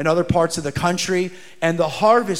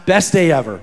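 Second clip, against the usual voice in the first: cheerful reply; 4 dB louder than usual. Retold or imitated. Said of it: "with a big smile".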